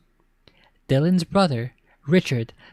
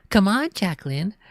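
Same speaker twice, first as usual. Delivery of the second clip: higher mocking sister imitation; mock whiny voice; 6 semitones higher than usual. Boy mocking his sister, lightly whiny imitation. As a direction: mimic her whine. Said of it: "mocked in a whiny voice".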